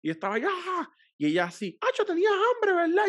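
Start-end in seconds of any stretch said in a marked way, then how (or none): 0.4-0.9 high "ah" through an aching jaw; mock pained groan. Retelling his jaw pain to the co-host, mock groan. 1.8-3.1 high, louder imitation of his partner; put-on high voice, teasing; mock woman's voice. He imitates his partner remarking on him, high mock voice.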